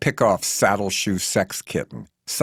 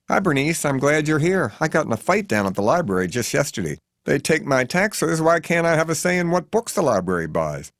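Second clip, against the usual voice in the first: higher, indignant matron in a housecoat; Missus Adderley; 7 semitones higher than usual. Acted. Missus Adderley griping to Bernice about the library. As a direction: fuss and complain, pitched up.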